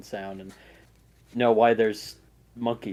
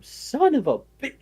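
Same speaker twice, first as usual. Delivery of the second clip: cut-off curse; 13 semitones higher, 5 dB louder than usual. Acted.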